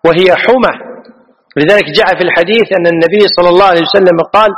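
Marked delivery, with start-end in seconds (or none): 0.1-0.7 "حمى" as huma, one short m; don't double the m of "حمى"; light mim. Shown as a demonstration. Teacher restating the correct form, "حمى" with light m. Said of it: "ما تقول".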